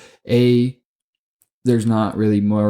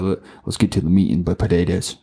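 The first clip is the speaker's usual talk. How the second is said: mock Southern accent; 3 semitones lower than usual. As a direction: quote yourself in a half-hearted Southern accent. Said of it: "I don't even know what fucking accent I was playing".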